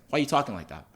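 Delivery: rough attempt at a Yoruba accent; imitated Yoruba accent. Soldier questioning how the boy talks, imitated Yoruba accent. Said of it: "I'm not doing this accent justice".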